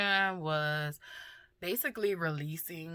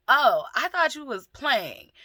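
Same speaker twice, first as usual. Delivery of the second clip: higher, louder, drawn-out imitation of daughter; daughter taken aback; 9 semitones higher, 7 dB louder than usual. Daughter explaining herself to her crying mother, taken aback. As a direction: play the daughter realizing, stretched and high.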